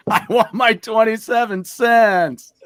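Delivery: mock worker demand. Mocking the worker.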